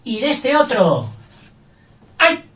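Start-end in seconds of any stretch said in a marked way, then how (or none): 2.2-2.4 sharp cry of pain; a short yelp of pain. Shown as a demonstration. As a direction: say it like it hurts. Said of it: "la del dolor".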